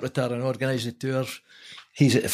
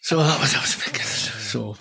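whispered aside. Real, not acted. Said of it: "hushed aside".

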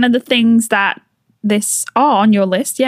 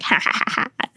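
mock gloating laugh; 8 dB quieter, faster than usual. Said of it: "she's like".

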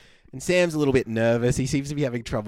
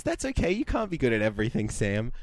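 sweetly; 3 dB quieter than usual. Retold or imitated. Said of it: "Tara really sweetly says".

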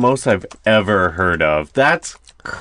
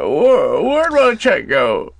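Hillary impression with vocal fry; creaky, drawn-out vocal fry; 6 semitones higher, slower than usual. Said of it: "there's like a vocal fry with it".

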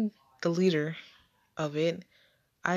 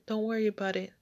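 calm reassurance; 4 semitones higher, much faster than usual. Retold or imitated. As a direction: gently settle a frightened child. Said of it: "she calmly said".

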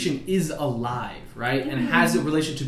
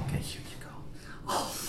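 excited angel; 9 semitones higher, 11 dB louder than usual. Pretend. Angel voiced at conception.

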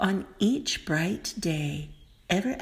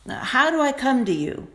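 louder, a bit higher mouse; 4 semitones higher, 4 dB louder, faster than usual. Acted. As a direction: ask it plainly and firmly. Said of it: "asked the mouse".

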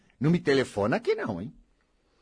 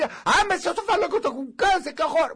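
mock dramatic patient; 12 semitones higher than usual. Mocking patient's dramatic reaction.

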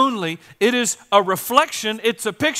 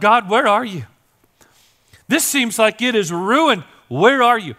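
retold yell out; 3 semitones higher, 5 dB louder than usual. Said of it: "all you knew how to do was yell out".

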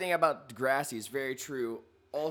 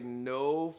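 retold disbelief; 4 semitones lower, much slower than usual. Retold stunned reaction to dead stare.

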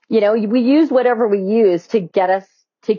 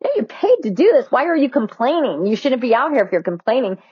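scornful inner thought; 4 semitones higher than usual. Retold or imitated. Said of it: "And I'm thinking to myself".

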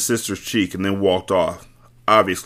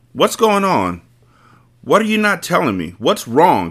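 higher, insistent demand; 9 semitones higher than usual. Acted. Wife demands answers from the two men, demanding. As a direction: press them for the truth. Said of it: "she demanded".

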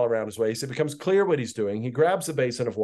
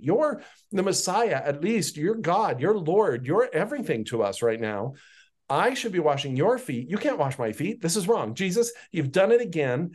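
higher, insistent protest voice for Peter; lightly voiced Peter objecting to his teacher; arguing Peter; 3 semitones higher than usual. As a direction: push back on Jesus like a flustered disciple. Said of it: "a Peter moment where he's arguing with Jesus".

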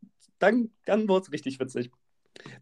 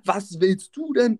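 higher, drawn-out aggressive challenge; mock a hostile yell, slowly; imitated screaming; 5 semitones higher, slower than usual. Woman challenging the helper, mock yelling. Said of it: "Auf einmal schreit sie so".

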